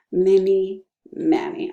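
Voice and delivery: "Mini Manny" slow and deliberate; an unhurried "Mini Manny". Shown as a demonstration. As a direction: say "Mini Manny" slowly once. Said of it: "say them all super fast".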